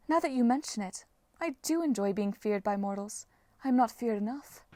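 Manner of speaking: understated haughty goddess; cool, quiet complaint from a goddess; aloof goddess. Acted. Voices the sea goddess.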